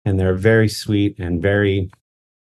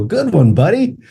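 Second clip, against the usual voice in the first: mock praise; 9 semitones higher than usual. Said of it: "I just start laughing and I go".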